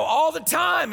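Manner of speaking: loud high shouted repeat; preacher's echo. Retold or imitated. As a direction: fire the line back at the crowd. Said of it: "And then I go".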